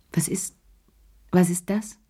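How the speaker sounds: halting, repeating the first words; stammering. A narrator's reading. Chéri spots the emerald and stammers. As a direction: trip over the question. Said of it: "stammelte er".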